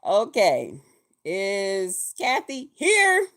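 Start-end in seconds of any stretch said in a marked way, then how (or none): 1.2-3.3 roll call. Retold or imitated. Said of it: "they start doing the roll call".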